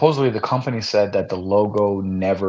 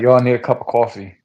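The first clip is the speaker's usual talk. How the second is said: mock New York accent; 7 dB louder than usual. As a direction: say it like a New Yorker. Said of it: "the more my New York accent comes out".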